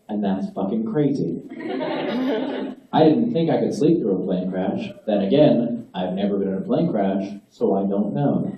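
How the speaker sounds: lightly voiced earnest customer; mock thank-you letter. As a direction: read it like a sincere fan email.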